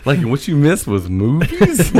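high, loud, laughing disbelief; incredulous rant. Retold or imitated. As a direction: throw his words back at him, cracking up. Mocking friend's odd priority.

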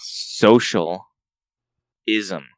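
"Social" then a pause before "ism"; spelled-out pun. Shown as a demonstration. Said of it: "ism is a word".

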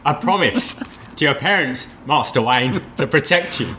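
hammed-up butler vow, leaping high at the end; mock-anguished Alfred. Butler confessing to Master Wayne, mock anguish. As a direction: build to a high, overwrought break. Alfred's tearful promise parodied, hosts laugh.

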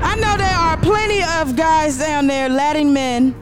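fired up and eager to go; excited Dorcel. Acted. Husband Dorcel to Dorothy about the trip, thrilled. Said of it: "He was excited".

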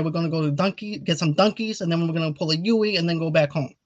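put-on Italian-American accent with local slang; Robert De Niro. Host announcing a donut run, in an Italian-American impression. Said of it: "If you wanna do an Italian impression".

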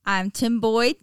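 put-on stern Texas accent reading. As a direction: read it like a gruff Texas mayor. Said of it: "I'm gonna be reading this in a Texas accent".

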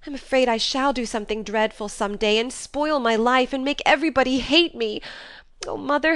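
sobbing out a confession of temper; tearful pleading. A narrator's reading. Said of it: "Joe cried even harder".

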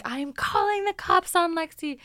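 high, loud mock angry mom; mom threatening. Mom threatening to call the cops, loud and high. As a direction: play the furious mom on the phone. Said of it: "be like".

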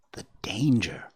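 hushed, awed whisper. Acted. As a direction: repeat it in a fearful whisper. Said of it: "he whispered".

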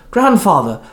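high, loud astonished cry; shocked calling out. A narrator's reading. Indra calls out to her grandfather's apparition, shocked. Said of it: "called out, shocked".

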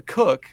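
"Cook" with the short vowel of "book"; name pronunciation. Shown as a demonstration. Host introduces guest's surname, "Cook" pronounced with a short oo. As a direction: say "Cook" like the chef's job. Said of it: "the way that he pronounces his last name".

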